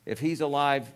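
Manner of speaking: Saul's high, pressing rebuke; an exasperated king scolding his son; exasperated father. Retold or imitated. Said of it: "In other words, saying".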